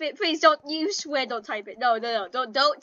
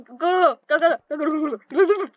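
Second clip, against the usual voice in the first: panicking; 5 dB louder, faster than usual. Real, not acted. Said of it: "I'm really panicking right now".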